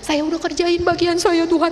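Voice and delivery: mild mock pouting; sulky. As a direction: complain to God like someone in a huff. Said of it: "saya ngambek sama Tuhan".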